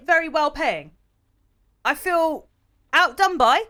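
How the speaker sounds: high, loud hammed-up grumbling; indignant cabbie rant. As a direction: play the stiffed taxi driver fuming. Rants as the cabbie character.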